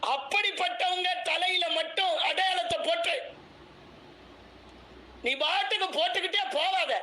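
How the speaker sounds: high, forceful sermon warning; preaching shout. Real, not acted. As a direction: call it out hard from the pulpit. Preacher scolding the congregation.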